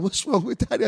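put-on high little kid's voice; imitated child. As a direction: ask it like a puzzled kid. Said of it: "And the kids are going".

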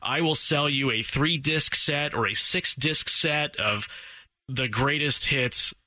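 slow late-night TV pitchman; infomercial. Retold or imitated. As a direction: drag out the sales pitch. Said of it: "like, late night T V".

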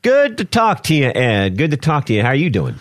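light mock-Irish accent for a greeting. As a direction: greet them in a put-on Irish brogue. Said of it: "You sound like you had an Irish accent there".

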